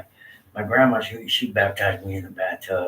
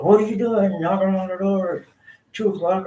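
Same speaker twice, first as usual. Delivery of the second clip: dad woken up, mock irritated, higher pitch; annoyed dad; 10 semitones higher, 3 dB louder than usual. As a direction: imitate a grumpy father at the door. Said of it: "He's all".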